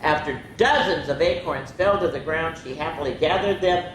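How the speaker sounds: lively picture-book reading; expressive bedtime-story narrator; story read-aloud. A narrator's reading. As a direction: read it to children, voicing each animal lightly.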